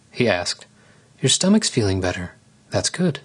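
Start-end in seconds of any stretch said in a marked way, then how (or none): 1.2-3.2 playful. Acted. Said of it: "She smiled and nudged him playfully".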